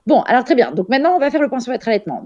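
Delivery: mock-patronizing nurse; condescending nurse. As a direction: talk down like a know-it-all nurse. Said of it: "cette personne était en mode".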